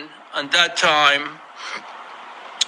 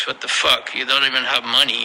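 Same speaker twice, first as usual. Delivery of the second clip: mocking disbelief; 5 semitones lower, faster than usual. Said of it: "he looked at me like".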